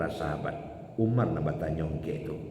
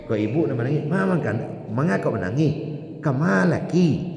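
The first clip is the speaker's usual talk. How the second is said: higher, louder pleading question; acted questioner; 5 semitones higher, 4 dB louder than usual. Companions asking the Prophet why he weeps, raised and pleading. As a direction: voice the companions begging an answer.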